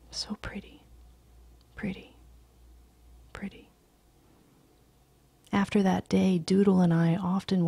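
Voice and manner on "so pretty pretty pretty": whispered, fading away; child's awe fading to nothing. A narrator's reading. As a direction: let each pretty die softer.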